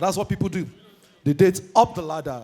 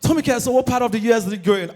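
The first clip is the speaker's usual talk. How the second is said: put-on American accent; 3 semitones higher, much faster than usual. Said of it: "My accent has stepped up".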